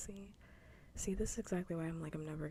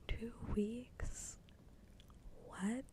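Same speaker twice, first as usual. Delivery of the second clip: higher, rising hushed questions; incredulous; 5 semitones higher, much slower than usual. Real, not acted. Streamer still stunned by two weeks, incredulous. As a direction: ask it in hushed disbelief. Disbelief at two-week warning.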